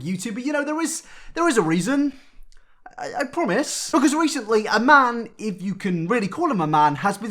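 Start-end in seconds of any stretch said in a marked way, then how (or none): 3.0-3.9 hushed aside; whispered promise. Acted. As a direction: lean in and whisper it.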